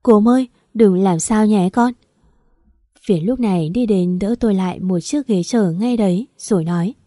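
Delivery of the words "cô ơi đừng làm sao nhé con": lightly acted sob, a bit louder; mother at the closed door, a hint of sobbing for her child. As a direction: plead through mild tears. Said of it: "Tôi lại nức nở khóc".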